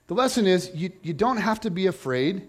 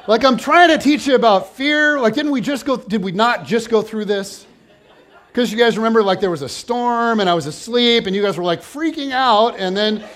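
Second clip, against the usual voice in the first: exasperated rant; 2 semitones higher, 5 dB louder than usual. Acted. Exasperated Jesus lecturing disciples.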